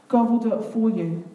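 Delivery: a hint of Moses, steady and slow; lightly voiced leader, slow and sure; calm Moses. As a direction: reassure the frightened people, slowing at the end. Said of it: "I don't really have a Moses-type voice".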